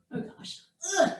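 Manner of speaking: whispered groan of pain. Real, not acted. Cramp pain.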